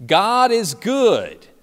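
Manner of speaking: loud, high, drawn-out call; camp director's yell. Retold or imitated. Camp director calling to kids in the cafeteria, yelled out. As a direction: call it out to get everyone's attention. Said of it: "he would yell out".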